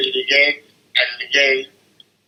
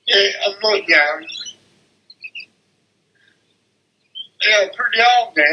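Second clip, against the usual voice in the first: real crying, words pitched up and cracking; 4 semitones higher than usual. Real, not acted. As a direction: voice breaking higher through real tears. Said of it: "It's all right to cry".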